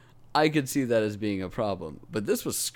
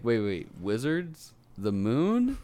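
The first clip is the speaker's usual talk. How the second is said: rising higher and louder with each question; mock confused player; 9 semitones higher, 3 dB louder than usual. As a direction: pile up baffled questions, ending up high. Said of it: "a killing point for Destiny of just like".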